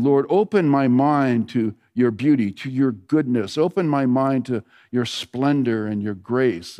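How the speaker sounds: slow, unhurried prayer to the Lord; a slow, lingering prayer voice; slow spoken prayer. Acted. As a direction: pray it slowly as a meditation. Prays aloud mid-sermon.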